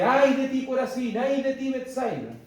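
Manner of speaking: preacher crying out Christ's woes, loud; loud prophetic woe. Retold or imitated.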